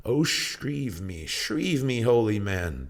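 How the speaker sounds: pitched high, slow pleading cry; desperate plea. A narrator's reading. Mariner begging the hermit to hear his confession, pleading high. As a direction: beg the holy man for absolution.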